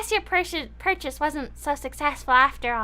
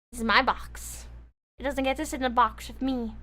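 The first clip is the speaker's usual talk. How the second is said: cat voice; 5 semitones lower, 5 dB quieter than usual. Acted. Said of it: "Cat is like".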